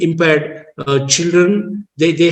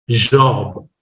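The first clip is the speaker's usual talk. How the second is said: British pronunciation; 5 semitones lower than usual. Shown as a demonstration. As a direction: say "Job" the British way, almost no friction on J. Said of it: "British speaker can".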